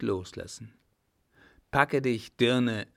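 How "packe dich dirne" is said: firm, slightly raised angry command; angry shout. Acted. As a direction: shove her off with the words. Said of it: "rief er endlich zornig".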